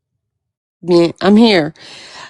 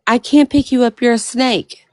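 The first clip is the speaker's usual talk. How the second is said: put-on little girl voice; 5 semitones higher than usual. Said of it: "the little girl said".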